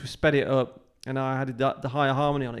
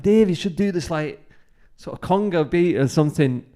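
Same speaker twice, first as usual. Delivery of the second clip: put-on Scottish accent; 3 semitones higher than usual. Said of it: "my attempt at Alex's Scottish accent".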